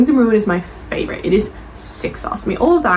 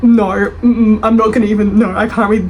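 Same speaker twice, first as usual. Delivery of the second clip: louder, emphatic no; loud refusal; 5 dB louder than usual. Real, not acted. Vlogger refuses a long review, loud emphatic refusal. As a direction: shut the review down firmly.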